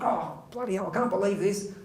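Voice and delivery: understated acted fuming; mock fuming. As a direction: grumble to yourself in acted disbelief. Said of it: "He's fuming".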